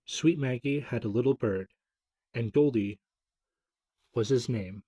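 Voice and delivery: put-on reciting an old children's poem; poem reading. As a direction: read it out to young listeners. Reads old poem aloud.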